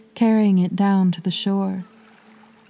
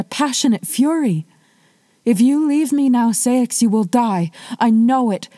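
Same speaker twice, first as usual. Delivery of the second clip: rising higher and louder into fear; building panic; 4 semitones higher, 3 dB louder than usual. Acted. Wife warning her husband he will die, building urgency. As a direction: warn him with growing desperation.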